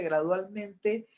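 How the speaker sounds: gradualmente stretched slow and drawn out; stress on gradualmente. Shown as a demonstration. Pastor stresses gradualmente to counseling students, drawn out slowly. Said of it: "Si la persona evacúa su dolor gradualmente".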